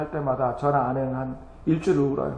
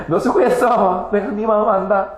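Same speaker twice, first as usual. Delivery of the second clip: Jesus comforting; 3 semitones higher than usual. Acted. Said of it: "예수님께서 안아주시고".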